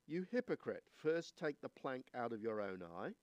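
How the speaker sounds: measured, solemn Bible reading; scripture reading. Acted. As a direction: read the verses with weight and care. Reads the scripture passage aloud.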